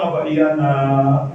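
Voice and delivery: mother's voice. Acted. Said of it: "Terus ibunya bilang".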